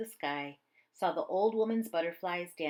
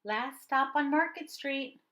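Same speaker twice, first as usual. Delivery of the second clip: higher, louder driver's call down the bus; calling out stop; 7 semitones higher, 3 dB louder than usual. A narrator's reading. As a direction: announce the last stop to the passengers. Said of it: "Mister Dennis called".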